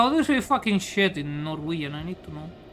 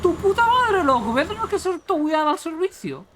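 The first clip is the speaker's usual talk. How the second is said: frustrated cursing; 10 semitones higher than usual. Real, not acted. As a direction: curse at the game in frustration. Cursing at game in Spanish.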